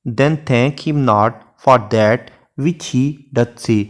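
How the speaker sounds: lingering over each word of the sonnet; unhurried classroom recitation of Shakespeare; slow poem recitation. Shown as a demonstration. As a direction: read the verse very slowly and evenly. Recites sonnet line in English.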